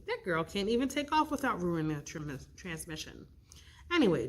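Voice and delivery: lightly voiced fussy godmother. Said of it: "it's your godmother, Lara".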